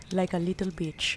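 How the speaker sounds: soft whispered aside; whispered joke. Real, not acted. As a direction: whisper it slowly.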